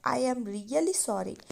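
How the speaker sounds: very slow, soft, a hint of sobbing; understated crying sorry; mild tearful apology. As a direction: drag it out as if holding back tears. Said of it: "ಬಿಕ್ಕು ಬಿಕ್ಕುತ್ತಾ ಅಳುತ್ತಲೇ".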